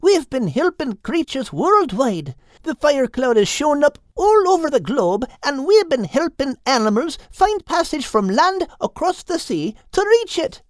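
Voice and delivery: high bird voice, patient explaining; Crinan's voice. Acted. Crinan explains their mission.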